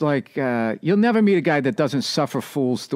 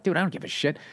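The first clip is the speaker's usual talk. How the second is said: half-laughing brush-off; 3 semitones higher, 6 dB quieter, faster than usual. Retold or imitated. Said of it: "almost, like, laughed".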